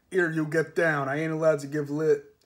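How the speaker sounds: gruff cart driver. Acted.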